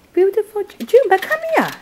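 high, loud coaxing call; calling the pet. Real, not acted. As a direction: coax the pet to come. Calling the guinea pig.

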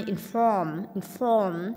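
"inform" stressed on the second syllable. Shown as a demonstration. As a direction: lean on the end of "inform". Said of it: "nhân âm hai". (nhấn âm hai "inform")

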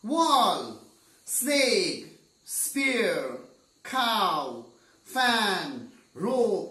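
loud one-word calls, each falling; noisy shouting match. A narrator's reading. Six blind men shouting their answers at each other, noisy. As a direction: call out each word like rival arguers. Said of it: "there is a noise there".

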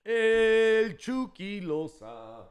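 announcer call. Acted. Player reveal, announcer style.

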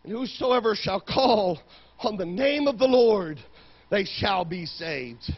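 soft, slowing to a close; hushed scripture reading. Real, not acted. Preacher quoting scripture to the congregation, hushed. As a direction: let the verse settle gently over the room.

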